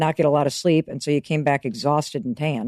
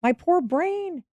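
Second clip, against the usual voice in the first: higher, cooing over your own poor little body; tender self-comfort; 7 semitones higher than usual. Pretend. Comforting your own stressed body and brain, tender and high. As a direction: soothe yourself like a fond parent would. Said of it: "just go".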